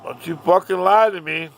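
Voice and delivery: acted loud, angry reprimand; stern warning. Dad warning the boy not to lie, angry.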